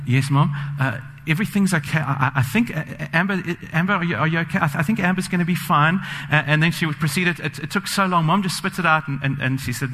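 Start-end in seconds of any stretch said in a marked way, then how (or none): 0.1-6.0 imitating a mildly flustered mom, a bit higher; halting, hesitant mother breaking bad news; anxious mom. Mother on the phone hesitating over bad news, mildly flustered. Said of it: "I can hear in her voice".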